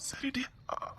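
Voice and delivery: barely voiced hush; soft whisper. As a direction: hush her tenderly, almost no voice. Husband soothes crying wife.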